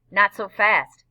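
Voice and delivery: loud, commanding stop; blocking challenge. A narrator's reading. Biker blocks the boy's escape.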